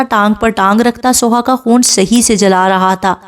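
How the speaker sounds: plain reading voice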